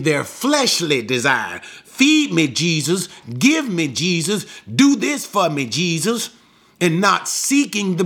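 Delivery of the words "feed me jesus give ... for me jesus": whiny demanding crowd. Retold or imitated. People's carnal demands mocked.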